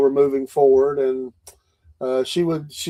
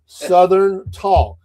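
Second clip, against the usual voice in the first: 1 put-on Southern; 5 semitones higher, 7 dB louder, much slower than usual. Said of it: "my best Southern voice".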